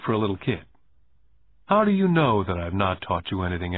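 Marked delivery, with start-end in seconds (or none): 1.7-3.8 even and unhurried; calm. Acted. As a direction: ask it calmly. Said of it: "asked Rich Dad calmly".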